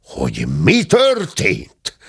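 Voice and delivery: slow, indignant echo of the question; understated acted roar; roared retort. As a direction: throw the question back with drawn-out outrage. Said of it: "ordította a tenyeres talpas vendég".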